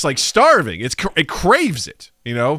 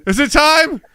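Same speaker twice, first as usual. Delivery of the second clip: creepy hungry toilet; 7 semitones higher, 6 dB louder than usual. Pretend. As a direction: lure them in, hungry.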